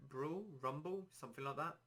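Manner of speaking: dry throat, voice going hoarse. Real, not acted. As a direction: talk through a parched throat. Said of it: "My throat has gone really dry".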